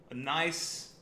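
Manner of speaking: slow, mock English accent on the beans; a lightly put-on English accent, drawn out. Host showing viewers an English accent, slow and light. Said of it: "That was an English accent".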